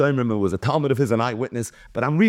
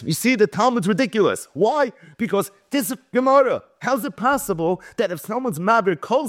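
mocking accuser; 6 semitones higher than usual. Mocking opponent Donin voiced.

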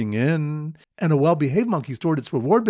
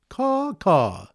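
two higher-pitched imitation caws; bird caller's caw; 4 semitones higher than usual. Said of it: "is a bird caller going".

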